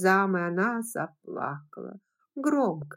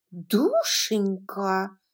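shocked reproach; much slower than usual. Acted. Pitty reproaches, drawn out.

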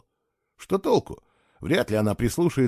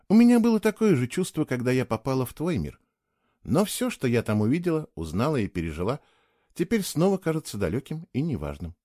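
lightly voiced young woman, wistful. Keyla voiced by narrator.

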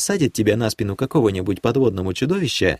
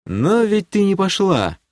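с усмешкой; 10 semitones higher, slower than usual. Acted. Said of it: "усмехнулся я".

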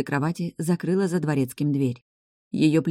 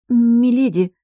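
much higher, louder shaky "Миледи"; a frightened maid calling her lady; trembling voice; 8 semitones higher, 8 dB louder, slower than usual. A narrator's reading. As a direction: let the voice quiver with fear. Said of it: "дрогнувшим голосом пробормотала горничная".

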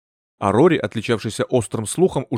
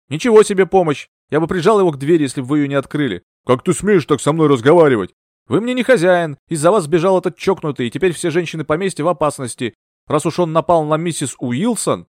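louder, higher heated reproach; heated rebuke; 4 semitones higher, 5 dB louder than usual. Acted. Rory rebukes Bertram for letting the attacker escape, heated. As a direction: tear into him for bungling. Rory scolds his master.

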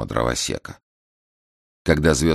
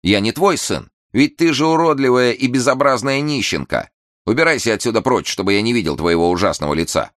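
much higher, louder cruel shouting; angry; 8 semitones higher, 4 dB louder than usual. A narrator's reading. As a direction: drive her away in rage. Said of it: "со злобой воскликнул мальчик".

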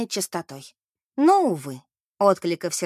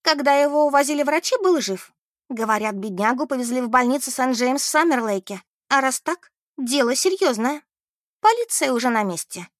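raised, urgent news-bearer voice; Beth, dramatic gossipy friend; 5 semitones higher, 3 dB louder than usual. Acted. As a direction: report the grave news with excitement.

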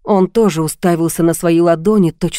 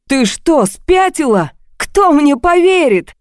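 high, slowing yell building to a scream; husband shouting in panic at his wife; 8 semitones higher, slower than usual. A narrator's reading. Panicked man screams at his wife, he'd never be believed. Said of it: "а потом закричал".

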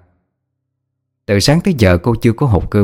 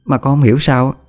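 a bit higher, quick, pleased-with-herself chatter; boastful scheming servant; 4 semitones higher, faster than usual. Acted. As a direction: brag about the frame-up.

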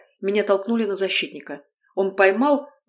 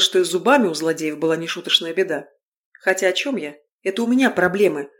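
usual speaking voice

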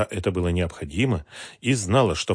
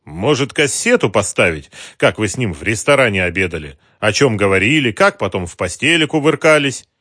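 louder jeering sneer; open mockery; 3 semitones higher, 7 dB louder than usual. A narrator's reading. Ocheretin jeering at Mara, louder and mocking. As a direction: taunt her with the tape. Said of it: "с явной издёвкой спросил".

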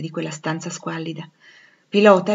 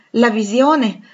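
raised, loud doubting question; incredulous question; 4 semitones higher, 8 dB louder, much slower than usual. Acted. Rochester taking Jane for a vision, incredulous. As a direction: question it in disbelief. Doubts her promise to stay.

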